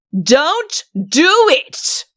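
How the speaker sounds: high, loud, very slow shout. A narrator's reading. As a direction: bellow it out, stretched. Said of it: "shouted Udo".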